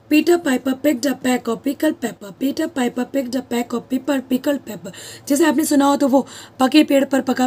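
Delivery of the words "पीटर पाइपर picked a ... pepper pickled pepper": "पीटर पाइपर picked a pack of pickled pepper" run through at a slow, even pace; tongue twister recited. Shown as a demonstration. Teacher recites the tongue twister for the class, slow and steady. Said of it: "tongue twister में क्या होता है".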